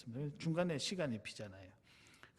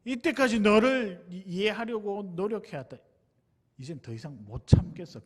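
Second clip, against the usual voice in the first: loud, high start that falls away; retold shout; 4 semitones higher, 8 dB louder than usual. Friend who tried to understand, fed up, retold shouting. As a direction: replay an exasperated outburst. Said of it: "그 친구가 소리를 막 지르더라고요".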